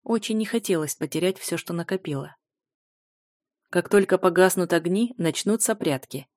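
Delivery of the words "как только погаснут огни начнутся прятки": dry. Acted. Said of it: "сухо напомнил варвар".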